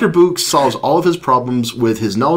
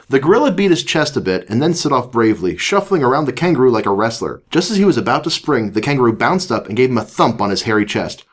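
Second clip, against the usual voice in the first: animated read-aloud voice; story narration. A narrator's reading. Reads a children's story aloud.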